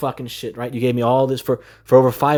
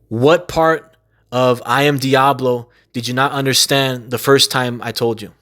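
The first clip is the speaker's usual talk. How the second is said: slow, each word spelled out in irritation; slow, exasperated; slower than usual. Real, not acted. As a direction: drag the question out, fed up. Exasperated rant, repeating the question.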